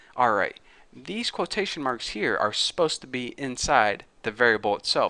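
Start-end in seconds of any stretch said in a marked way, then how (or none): none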